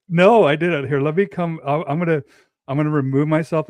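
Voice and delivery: high sped-up mic glitch; squeaky sped-up audio; mouse voice. Real, not acted. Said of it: "playing at two or three times the speed".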